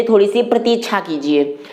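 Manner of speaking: ordinary delivery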